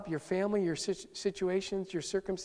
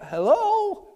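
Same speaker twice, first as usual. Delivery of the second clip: very high sarcastic hello, then slow urging; mock exasperation at the delay; impatient hello; 8 semitones higher, much slower than usual. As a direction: Jairus hurrying Jesus along, exasperated. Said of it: "Jairus is like".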